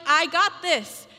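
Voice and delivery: slow, calm I've-got-this; unhurried comforting promise; reassuring God. Pretend. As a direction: settle the listener like a patient father. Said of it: "He's like".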